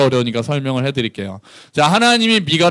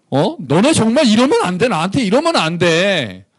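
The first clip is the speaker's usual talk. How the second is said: higher, wounded plea that softens; pleading God; 4 semitones higher than usual. Acted. God pleading with his people Israel, hurt and earnest. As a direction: scold then plead, hurt. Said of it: "하나님 이렇게 말씀하시는 거죠".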